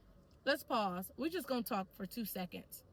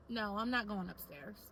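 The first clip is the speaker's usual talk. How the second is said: calm, honest refusal in a lower register; straightforward, not rude; 3 semitones lower, 3 dB quieter than usual. Shown as a demonstration. Practising telling a client she won't go upstairs, straightforward but polite. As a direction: say no plainly and respectfully. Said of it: "straightforward without being rude".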